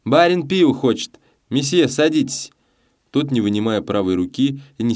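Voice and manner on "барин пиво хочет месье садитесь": loud, high barmaid's call; shouted. A narrator's reading. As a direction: call out the order across the room. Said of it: "и крикнула".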